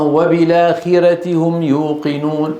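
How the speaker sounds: وبالآخرة run together as "wabilaakhira", hamza dropped; measured chant, "wabilaakhirati hum"; recitation variant. Shown as a demonstration. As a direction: glide from the l into aa in وبالآخرة. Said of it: "وإن قرئ أمامه".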